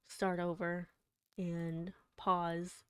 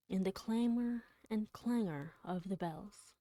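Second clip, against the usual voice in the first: measured, dramatic recitation of a poem; dramatic poem reading. Acted. Streamer reading a Poe poem to chat, dramatic recitation. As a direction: read the verse to your listeners, letting the bells ring. Streamer reads Poe's The Bells.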